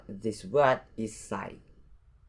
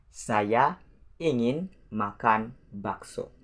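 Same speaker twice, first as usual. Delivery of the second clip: slow repeat. Shown as a demonstration. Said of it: "Let's have a look at the example".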